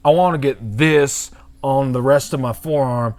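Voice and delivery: lightly put-on Southern accent. Customer explaining his tattoo idea, light Southern accent. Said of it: "a Southern accent".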